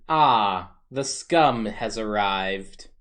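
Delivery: slow muttered aside meant to be overheard; loud mutter. Acted. Zolf greets the thief for all to hear, loud mutter. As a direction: mutter it slowly, but loud enough for all. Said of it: "As Zolf mutters, under his breath, but loud enough".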